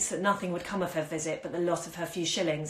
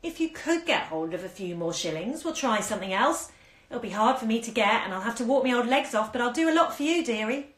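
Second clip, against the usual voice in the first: wheedling; 5 semitones higher than usual. Acted. Old woman coaxing more shillings from the girl, mildly wheedling. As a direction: coax her like a sly old woman, lightly. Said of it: "in a wheedling voice".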